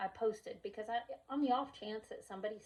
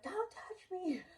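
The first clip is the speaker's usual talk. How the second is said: put-on defiant child; 10 semitones higher, slower than usual. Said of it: "She's like".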